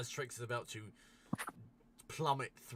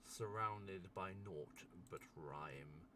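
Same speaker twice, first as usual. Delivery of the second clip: scene narration; 8 dB louder than usual. Acted. Game master unveils a rising ice being to players, measured narration. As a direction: describe the emerging giant with slow, deliberate pauses.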